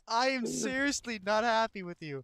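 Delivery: hiccup giggles. Real, not acted. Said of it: "then stop laughing".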